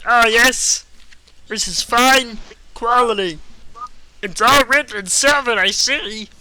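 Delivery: high, loud squeaky elf. Acted. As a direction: appraise like a tiny elf. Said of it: "He's like".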